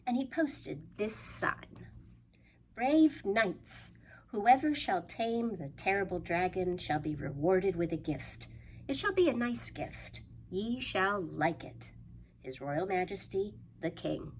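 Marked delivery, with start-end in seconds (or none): 2.8-14.3 lightly voiced royal proclamation. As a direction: read it out like a town crier, a little grand. Reading the king's proclamation.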